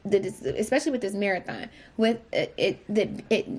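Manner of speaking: stumbling over words; stuttering. Real, not acted. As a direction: stammer and restart. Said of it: "I'm stuttering".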